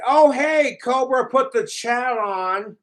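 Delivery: sneering impression of the trolls; mocking trolls. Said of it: "It's like".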